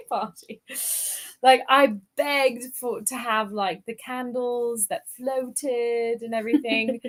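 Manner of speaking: chatty put-on British English; generic British accent. Shown as a demonstration. Guest recalling a birthday party, in generic British accent. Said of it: "we'll start off generic British".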